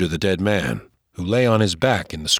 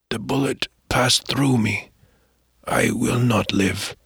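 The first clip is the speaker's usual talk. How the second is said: a hint of an old man, slow and pained; lightly voiced wounded old Caddo man; 2 semitones higher, slower than usual. Dying old man tells the boy of his protector, lightly voiced, slow. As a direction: play the dying elder gently, not much change.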